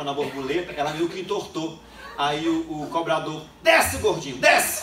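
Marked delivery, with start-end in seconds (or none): 3.6-4.8 put-on loud gruff yell at the chubby kid; conductor yelling. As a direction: bark it like an annoyed bus conductor. Bus conductor yelling at boy.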